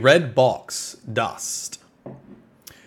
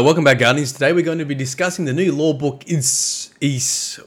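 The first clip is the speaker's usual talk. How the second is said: louder, bright video-intro voice fumbling the name; mock YouTuber intro; 3 semitones higher, 4 dB louder than usual. Shown as a demonstration. Streamer showing viewers his recording intro. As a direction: play the eager host tripping over a word. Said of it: "this is what it looks like".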